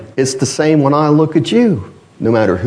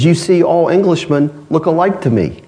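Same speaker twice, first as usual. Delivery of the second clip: higher-pitched, lightly imitated Chinese accent; 6 semitones higher than usual. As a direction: deliver the punchline in a mild Chinese accent. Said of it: "he said it with a Chinese accent".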